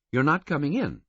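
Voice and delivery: high female voice, flat and dismissive; flat woman. A narrator's reading. Governess sizing up the attendant, flatly dismissive. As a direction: label him and dismiss him. Female guard refusing entry.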